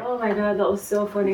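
winded from laughing; after laughing hard. Real, not acted. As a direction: still breathless after a laughing fit. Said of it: "My face hurts from laughing".

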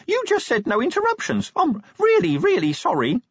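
squeaky, very high despairing apology; tiny imp wailing how sorry it is. A narrator's reading. Imp apologising to Vimes, head in hands, despairing. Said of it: "The imp went from despair".

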